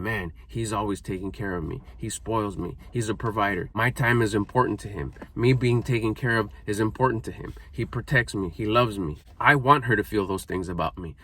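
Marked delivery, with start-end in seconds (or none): 0.0-9.2 softer, lower, lightly voiced doting wife; a hint of a smitten wife's murmur. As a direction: gently voice the adoring wife. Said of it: "she looks at me with googly eyes going".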